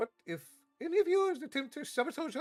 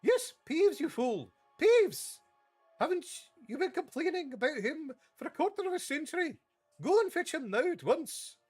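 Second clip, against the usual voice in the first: much higher, much louder exasperated shouting; furious yelling; 6 dB louder than usual. Acted. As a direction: berate the baffled caretaker. McGonagall yelling at Filch.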